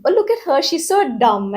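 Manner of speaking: high, sing-song taunt at her; mocking sneer. Bully mocking a girl to others, sneering. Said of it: "like somebody mocking you".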